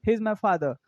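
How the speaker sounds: father with the final R left silent; English-accent father. Shown as a demonstration. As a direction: drop the R at the end of father. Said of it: "that is pronunciation". (father का आख़िरी र silent)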